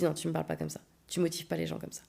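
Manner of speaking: low, firm reproach; quiet anger. Retold or imitated. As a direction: refuse his excuse coldly. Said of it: "j'étais d'une colère".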